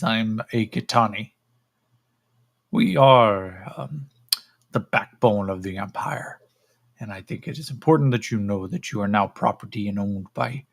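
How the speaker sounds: measured, halting explanation; lightly voiced alien, instructing its property; lofty creature. Creature tells captive who owns him, lofty creature voice.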